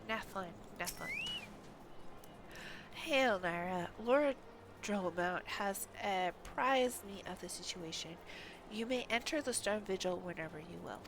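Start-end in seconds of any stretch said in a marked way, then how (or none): 2.9-11.0 knight voice. Acted. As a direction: greet the travellers formally as a guard knight. Game NPC dialogue read aloud.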